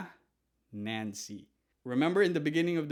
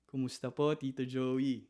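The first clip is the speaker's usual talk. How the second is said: respectful greeting. Shown as a demonstration. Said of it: "You see how I said that?".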